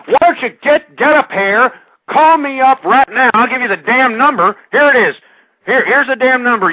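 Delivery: loud, heated challenge to the caller; radio host yelling at a hate-mail writer; angry shouting. Acted. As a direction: bark it at the caller like a dare.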